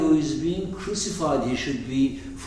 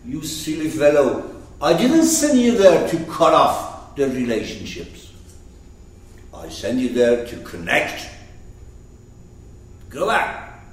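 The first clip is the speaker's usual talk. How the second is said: retold scolding with loud bursts; emphatic, mildly cross reprimand; mock-angry God; 4 dB louder than usual. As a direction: imitate God telling off a prophet. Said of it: "God got angry".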